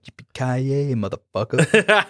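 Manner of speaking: lightly imitating the hero, stretched out slowly; slow drawn-out catchphrase. Quoting the hero's line to a friend, slow and cocky. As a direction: drag out the last word like a cocky cowboy. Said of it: "And he's like".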